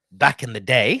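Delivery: a hint of an old man reminiscing; old geriatric voice. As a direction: lightly voice a creaky elder. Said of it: "said the old geriatric".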